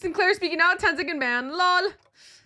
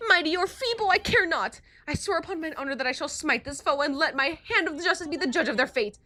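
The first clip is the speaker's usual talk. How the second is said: high, loud heroic knight voice; rally the knights, high and bold; Don Quixote voice; 10 semitones higher, 5 dB louder than usual. Acted. To the party, a high bold knight rallying.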